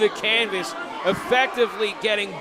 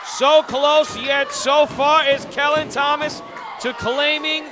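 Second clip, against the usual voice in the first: wrestling commentator; 4 semitones higher than usual. Real, not acted. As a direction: draw out the drama. Dramatic commentary after kick-out.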